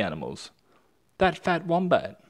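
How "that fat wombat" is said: gloating villain. Acted. Dingo gloating over wombat.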